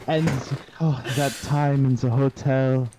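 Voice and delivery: fake crying. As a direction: ham up fake tears. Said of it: "I'm faking crying".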